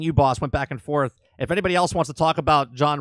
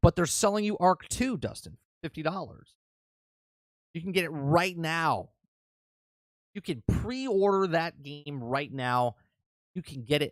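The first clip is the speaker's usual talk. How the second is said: very sarcastic, heavily mocking tone; 6 dB quieter than usual. Telling someone the sequel can be pre-ordered now: sarcastic. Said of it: "I'm being very sarcastic here".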